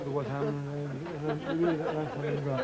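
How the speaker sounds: put-on Scottish footballer accent. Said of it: "my Scottish accent".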